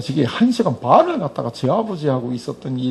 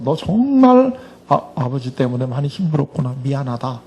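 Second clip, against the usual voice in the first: tender fatherly comfort. Pretend. Hugging sobbing student, apologizing.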